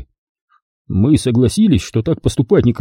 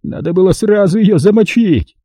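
higher, furious snarl of a cornered crook; sputtering foiled villain; 5 semitones higher than usual. Acted. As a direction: spit it out in rage. Cornered bandit rages on. (в бессильной злобе, визгливо)

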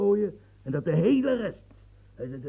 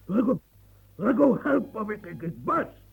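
frantic call; 4 semitones higher, 4 dB louder than usual. Acted. Calls servant, overwhelmed.

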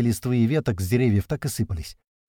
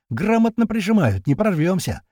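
panicked under fire; 7 semitones higher, 3 dB louder than usual. A narrator's reading.

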